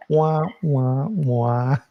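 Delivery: wah wah wah like a sad trombone; mock sad trombone. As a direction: sing the groan of a failed joke. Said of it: "everybody's groaning collectively".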